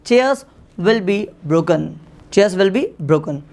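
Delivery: slow dictation. Shown as a demonstration. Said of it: "तो आप बनाएंगे".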